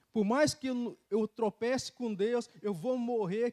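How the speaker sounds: fervent cry. Real, not acted. Preacher declaring his faith to the church, loud and slow. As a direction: stretch it out with full conviction.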